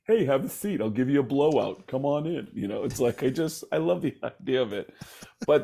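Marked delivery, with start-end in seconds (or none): 0.1-2.5 lightly voiced salon owner welcoming a client; a hint of a chatty hairdresser; hair salon rock singer. A rock singer as a Long Island hair salon owner, light impression. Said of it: "Paul Stanley owns a hair salon in Long Island and goes".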